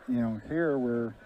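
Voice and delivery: breathing heavily into the mic; audible heavy breaths between words. Real, not acted. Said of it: "I'm breathing heavily into the mic".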